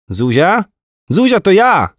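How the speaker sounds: put-on high, eager little boy calling his mum; excited kid grabbing the phone; child voice. A narrator's reading. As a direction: squeal it like an excited small boy.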